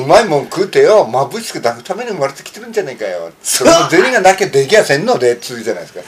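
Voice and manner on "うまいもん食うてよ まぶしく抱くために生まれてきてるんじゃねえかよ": lightly voiced Hiroshima yakuza line, the dialect carrying it more than the voice; a casual Hiroshima-dialect recital of a gangster film line; Hiroshima-dialect movie quote. Asked to recite a favourite yakuza film line, a mild Hiroshima dialect quote. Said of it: "広島弁でな".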